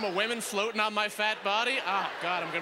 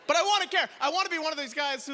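pleading; 7 semitones higher than usual. Acted. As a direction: beg to be allowed to care. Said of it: "comic plea".

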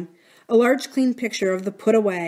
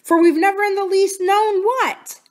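higher, louder declaration; a much higher, louder protest; declaring; 12 semitones higher, 6 dB louder than usual. Acted. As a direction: announce it with full conviction. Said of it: "Missus Gross declared".

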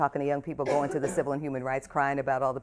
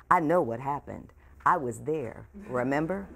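gently but firmly. Acted. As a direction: set her straight kindly without giving ground. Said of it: "gently but firmly".

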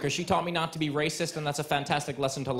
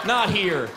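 not said high and loud; stress on not; 4 semitones higher, 5 dB louder than usual. Pretend. Hammering home to the crowd, stressed not. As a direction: punch the word not. Repeated punch.

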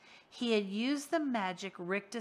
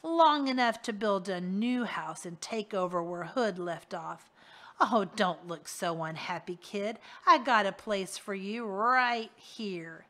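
a leering henchman, gloating; smug villain boast; 4 dB louder than usual. Acted. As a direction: brag like a crook who outsmarted his boss. Rictus mocks Harvey.

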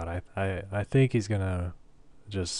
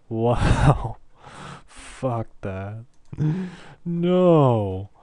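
shocked laughter; 3 semitones higher, 8 dB louder, much slower than usual. Real, not acted. Laughing off a crushing loss.

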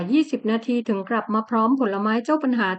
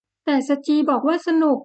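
wheedling wife; 5 semitones higher than usual. Acted. Wife coaxing husband.

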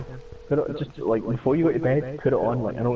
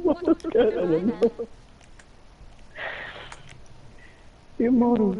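mocking impression; 11 semitones higher than usual.

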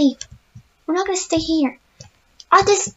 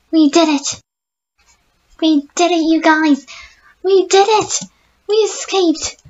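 loud happy celebration to viewers; joyful cheer; 3 dB louder than usual. Real, not acted. Gamer tells viewers they won, excited cheer.

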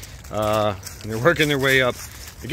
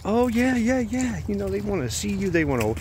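imitating the clerk; 4 semitones higher than usual. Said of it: "He's like".

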